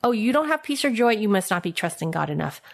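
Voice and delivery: fast, dismissive imitation of a churchgoer; mock preachy quote. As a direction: rattle it off like a know-it-all. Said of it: "Have you heard that before?".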